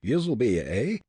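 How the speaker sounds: high Irish brogue, indignant; outraged cry. A narrator's reading. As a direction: exclaim as an affronted Irishman. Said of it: "the Hibernian cried".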